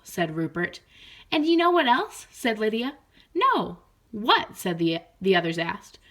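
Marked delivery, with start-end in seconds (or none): 1.3-2.3 higher, louder eager question; playful frog hinting; teasing excitement. Acted. Frog teases secret. 3.3-4.6 higher, louder eager question; curious eagerness. Acted. Others curious.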